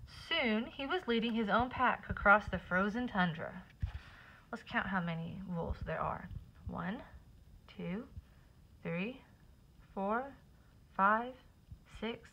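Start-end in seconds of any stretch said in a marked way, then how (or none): 4.5-12.3 soft counting aside. Real, not acted. Counting with child.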